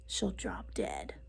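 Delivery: slow hushed spooky whisper; creepy whisper. Acted. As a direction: whisper it like a scary secret. Ominous punchline whisper.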